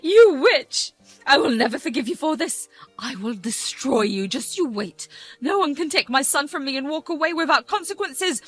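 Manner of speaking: loud, high screaming threat; venomous threat. Acted. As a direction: scream the curse at her, rising to a shriek. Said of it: "addressed me with her venom".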